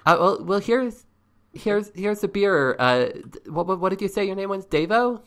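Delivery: high, stumbling hostess voice; high-pitched counter lady groping for a name; flustered lunch counter woman. Acted.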